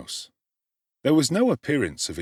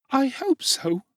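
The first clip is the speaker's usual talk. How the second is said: put-on much higher, louder little child's voice; small child Dick; 3 dB louder, slower than usual. A narrator's reading. Sick little Dick answering Oliver, high child voice. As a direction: answer as a frail small boy.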